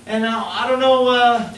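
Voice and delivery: high, fast frantic insisting; a panicked friend insisting it's over; mock panic. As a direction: friend freaking out about doomsday. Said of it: "he said".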